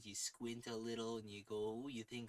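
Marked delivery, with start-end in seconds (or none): 1.9-1.9 Minnesota ooh. Shown as a demonstration. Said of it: "you pitch it up into your nose".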